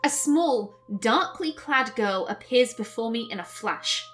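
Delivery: measured, expressive reading of a story; story narration. A narrator's reading. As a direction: narrate the scene with care. Reads the game's narration aloud.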